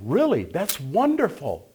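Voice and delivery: high, drawn-out delighted reaction; rejoicing. Retold or imitated. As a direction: rejoice with them in a high, stretched voice. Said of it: "I always rejoice with them".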